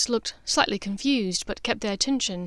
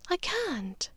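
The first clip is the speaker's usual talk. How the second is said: gentle refusal, higher and much softer; soft, raised, gentle no; 9 semitones higher, 7 dB quieter than usual. A narrator's reading. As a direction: let her down tenderly. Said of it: "Narcissa said gently".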